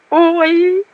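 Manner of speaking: high wailing ой; a woman's frightened howl; howling cry. A narrator's reading. Village woman howls at the soldier. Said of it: "снова начала взвывать Адарка".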